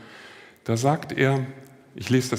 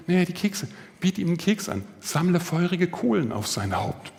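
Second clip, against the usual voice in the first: urging friend; 5 semitones higher than usual. Retold or imitated. Friend urging him, voiced higher.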